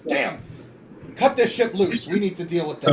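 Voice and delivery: captain yelling orders, high and loud; distraught yell. Acted. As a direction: shout urgent orders to the crew. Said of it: "he looks distraught and he yells".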